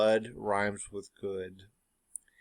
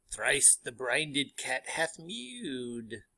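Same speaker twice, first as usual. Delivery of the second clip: slow, drawn-out eerie witch line; lightly voiced witch, dragging each word; first witch, slow and eerie; 4 dB quieter, much slower than usual. Teacher reads the first witch to class, slow eerie voice. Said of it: "The first witch says".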